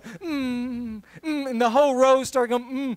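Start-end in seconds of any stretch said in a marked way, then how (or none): 0.0-1.5 mock hum. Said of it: "we started going".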